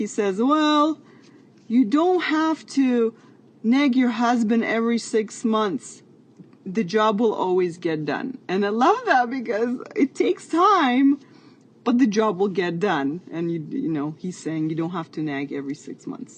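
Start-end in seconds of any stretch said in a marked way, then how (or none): 0.4-8.4 put-on heavy Russian accent, laid on thick. Retelling what the husband said after fixing the walls: strong Russian accent. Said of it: "with a strong Russian accent".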